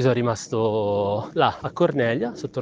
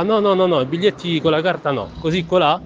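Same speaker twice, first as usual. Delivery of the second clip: mocking loud refusal; 5 semitones higher, 3 dB louder than usual. Bar clerk refusing card, mocked.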